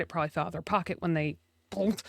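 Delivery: whispered aside to self; whispering. Retold or imitated. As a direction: breathe it out as a whisper. Muttering thought to self.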